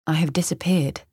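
breathy hushed whisper. Acted. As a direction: whisper it, vanishing. Lost mind, whispered.

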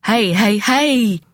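high alarmed spluttering; the guest splutters as the dog sniffs. A narrator's reading. Startled guest spluttering at the dog. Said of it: "our victim spluttered".

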